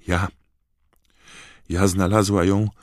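high, halting, frightened house-elf; timid elf. A narrator's reading. The elf tells where she found the wand, timid and high. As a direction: stammer it out shyly. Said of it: "wyszeptała".

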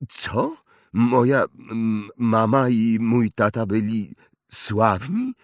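can't believe it; astonished boy. Acted. Harry astonished.

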